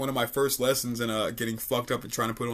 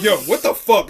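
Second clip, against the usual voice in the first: shocked; 6 semitones higher, 8 dB louder than usual. Retold or imitated. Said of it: "sober me is like".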